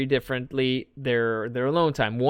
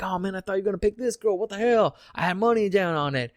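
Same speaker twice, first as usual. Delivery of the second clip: mock upset bettor; 6 semitones higher than usual.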